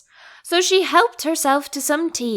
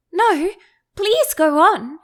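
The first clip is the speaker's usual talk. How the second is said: humbly; 6 semitones higher, slower than usual. A narrator's reading. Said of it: "Alice said very humbly".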